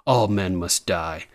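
Grey Worm. Retold or imitated. Grey Worm's line retold.

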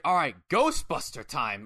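slow, drawn-out mild exasperation; exasperated announcement. Retold or imitated. Imitating Money before his move, slow exasperated announcement. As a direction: stretch it out, mock exasperated. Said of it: "how he exasperates everything".

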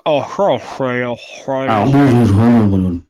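imitating laggy audio; mock bad audio. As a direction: mimic a glitchy echoing mic. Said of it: "Instead of sounding like".

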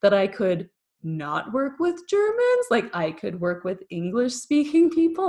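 slow, drawn-out delighted questioning; excited disbelief. Retold or imitated. Excited at escaping work with Germans, delighted disbelief. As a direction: savor each word as if it's too good. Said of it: "I was just so excited".

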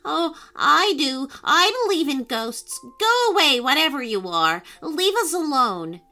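scared and angry squeak, loud and high; squeaky. Acted. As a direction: squeak out a frightened, cross warning. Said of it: "said in a squeaky voice".

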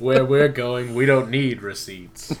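loud defiant laughing yell; laughing shout. Pretend. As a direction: shout it back through laughter.

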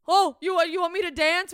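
high, loud eager-to-please; bright people-pleaser voice; mock eager performer. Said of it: "We go like".

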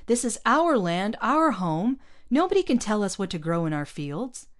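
fierce cry for the homeland. A narrator's reading. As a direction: stake the claim loudly. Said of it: "Mario cried".

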